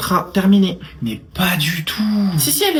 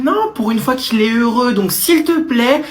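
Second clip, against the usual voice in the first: defensive mother; 6 semitones higher than usual. Acted. Mother defends her son.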